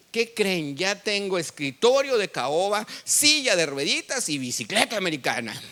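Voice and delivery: retold boast, lightly excited; mildly elated proclamation; happy announcement. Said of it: "salí tan contento".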